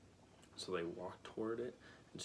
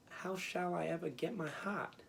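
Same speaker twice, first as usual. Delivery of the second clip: dismayed; 9 semitones higher than usual. A narrator's reading. Tin Woodman dismayed.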